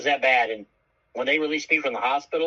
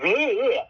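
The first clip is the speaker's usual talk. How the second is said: groan; 8 semitones higher than usual. Retold or imitated. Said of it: "all I said was".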